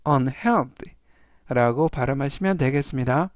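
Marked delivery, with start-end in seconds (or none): 0.1-0.9 unhealthy with the stress on the middle syllable, heal. Shown as a demonstration. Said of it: "가운데 부분에 있는 알파벳 E의".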